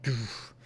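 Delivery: soft sound effect of dropping out; quietly voiced thud; imitated thud. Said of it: "And I just went".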